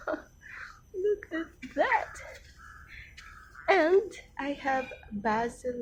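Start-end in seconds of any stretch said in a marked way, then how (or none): 0.1-2.1 whispered aside. Real, not acted. Laughing aside, unvoiced.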